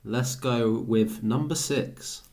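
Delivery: slow drawn-out bingo call; bingo caller. Acted. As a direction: call the number like a bingo hall. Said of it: "I feel like a bingo caller".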